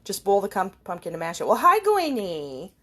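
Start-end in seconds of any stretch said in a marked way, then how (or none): 1.5-2.7 slow, louder pet greeting; drawn-out hello to a pet; greeting the cat. Real, not acted. Greeting her cat Guinea, slow and doting.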